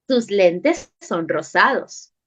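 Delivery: TUS LENTES SON ROSADOS as a slow, low statement, no question; statement intonation. Shown as a demonstration. Teacher showing sentence A to pupils, stated slowly. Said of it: "Oración A".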